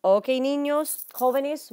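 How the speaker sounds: loud, high call to students; calling to the class. Real, not acted. Teacher addressing students after the notes, calling out. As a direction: call the class to attention, drawn out.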